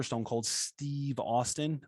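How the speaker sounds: Steve leaned on, slow; stress on Steve. Real, not acted. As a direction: lean on Steve, slowly. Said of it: "you put the emphasis on the Steve".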